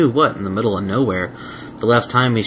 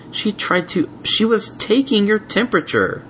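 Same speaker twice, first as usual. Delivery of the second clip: Spike voice; 12 semitones higher than usual. Acted. Spike's defensive retort.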